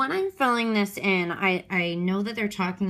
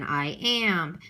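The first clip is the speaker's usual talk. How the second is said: iamb as "I am", second part stronger; light I, stronger AM in "I am"; stress on AM. Shown as a demonstration. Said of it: "unstressed followed by a stressed".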